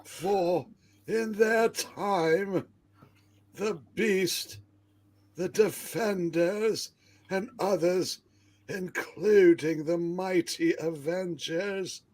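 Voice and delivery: measured, portentous storytelling; grand comic narration. Acted. Telling of heroes come to Rutland, grandly theatrical. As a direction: declaim it in halting, weighty phrases.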